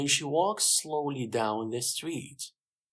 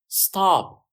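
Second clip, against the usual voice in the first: loud, high police order; sharp raised-voice command; shouted command; 7 semitones higher, 9 dB louder than usual. A narrator's reading. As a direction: call out to halt someone. Officer orders fleeing woman to stop.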